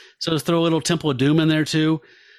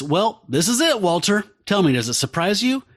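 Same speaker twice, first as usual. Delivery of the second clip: put-on Southern accent. Podcast host reading a villain's speech to co-hosts, in a light Southern accent. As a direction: read the crime boss's monologue in a mild Southern accent. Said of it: "I'm gonna do a Southern accent like that the whole time".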